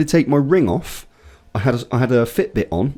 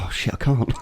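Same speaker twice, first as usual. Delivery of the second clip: laughing it off; 6 dB quieter than usual. Retold or imitated. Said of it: "wanted to be angry, and he was like".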